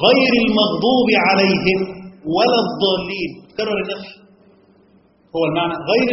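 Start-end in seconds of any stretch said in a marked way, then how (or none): 0.1-3.3 slow, loud Quranic recitation. Shown as a demonstration. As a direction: recite the Fatiha phrase slowly. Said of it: "زي لما بنقرأ في سورة الفاتحة".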